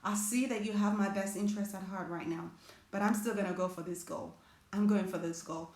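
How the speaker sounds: gently telling fear you will go for the goal anyway; calm resolve. Pretend. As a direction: thank the fear, then quietly commit. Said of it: "sit with it and say".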